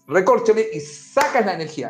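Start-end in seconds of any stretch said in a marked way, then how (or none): 0.1-0.7 mock exclamation. Shown as a demonstration. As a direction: savour "recorcholis" like a harmless curse. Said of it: "decir algo".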